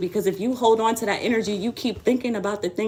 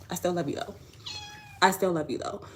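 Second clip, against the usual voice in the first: 1 softly reassuring the cat; 3 semitones lower, 7 dB quieter than usual. Real, not acted.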